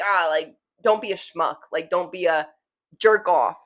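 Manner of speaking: put-on light New Jersey accent, tossed off; a hint of a Jersey accent, dismissive; casual mock Jersey put-down. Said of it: "there was definitely an accent behind that one".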